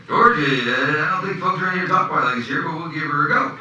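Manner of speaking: high, loud Southern accent impression; hammed-up Kentucky country uncle; Uncle Jack. Kentucky uncle replying on tape to his nephew, hammed-up Southern accent. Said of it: "I sent it to my Uncle Jack".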